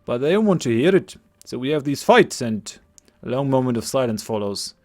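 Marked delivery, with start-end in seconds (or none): 0.0-2.8 put-on lightly overdone Scottish accent; a young villager's Scottish lilt. Game master voicing Cillian to the party, Scottish accent. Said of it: "my attempted Scottish accent".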